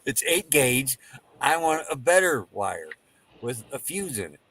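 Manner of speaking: slow, patient retelling in spaced phrases; deliberately slow. Retold or imitated. Customer repeating his wire order to store guy, deliberately slow. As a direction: lay it out piece by piece. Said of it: "say this very slow for you".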